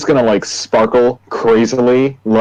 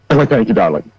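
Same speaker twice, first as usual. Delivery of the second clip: campy Pepper voice. Acted. Player voices Pepper character.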